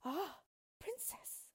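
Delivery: high, drawn-out tearful lament; weeping queen. Acted. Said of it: "said the queen, weeping".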